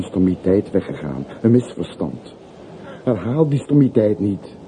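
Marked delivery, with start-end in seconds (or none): 3.0-4.6 urgent plea. Acted. Porter urgently begging him to stay.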